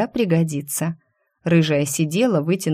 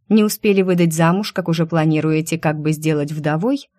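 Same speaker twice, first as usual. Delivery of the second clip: defiant. Acted. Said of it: "говорила с вызовом".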